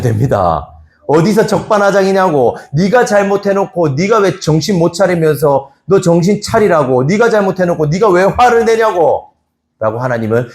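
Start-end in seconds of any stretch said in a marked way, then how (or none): 1.1-7.0 higher, sharp scolding of Cain; angry rebuke. Retold or imitated. Imagined God rebuking Cain. 7.0-9.3 raised, harsh rebuke, stress on 화를; angry scolding. Retold or imitated. Imagined judging God scolds.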